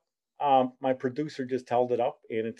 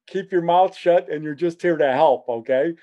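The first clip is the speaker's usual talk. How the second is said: mock scolding shout; 5 semitones higher, 5 dB louder than usual. Brother scolding him.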